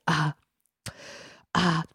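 imitating a child stalling with long pauses; hesitant "uh", left hanging before going on. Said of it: "it's kinda how he talked".

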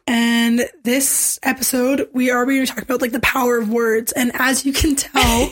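hoarse, barely-there voice; raspy voice from being sick; lost voice. Real, not acted. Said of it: "I have no voice still".

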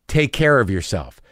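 understated, ominous send-off; loaded tone. Retold or imitated. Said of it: "Did you hear my tone just then?".

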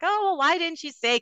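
mimicked sudden change of heart, pitched high; Mandy Cohen, sassy. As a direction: swoop up high in a playful, sassy retelling. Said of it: "She's all sassy with them".

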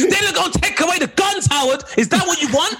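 very high, frantic mock alarm; Alex Jones impression. Conspiracy theorist warns Howard about guns, mock alarm. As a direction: rant like a paranoid gun-rights broadcaster. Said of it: "It's Alex Jones".

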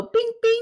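high mock squeak; toy squeak. Co-host demonstrating the Teddy Ruxpin squeeze, squeaking high. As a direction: chirp it like a toy button. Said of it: "you go".

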